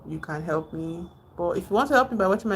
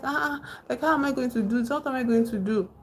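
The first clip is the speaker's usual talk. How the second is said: higher-pitched frustrated complaint; retold helpless frustration, pitched up; 6 semitones higher, faster than usual. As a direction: act out a worn-out hiker's exasperation. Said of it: "he was frustrated".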